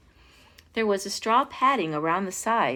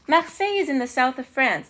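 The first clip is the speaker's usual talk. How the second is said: put-on higher, careful French-accented explanation; careful counselor; 5 semitones higher, 4 dB louder than usual. A narrator's reading. Counselor advising the king, carefully French-accented. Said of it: "the counselor said carefully".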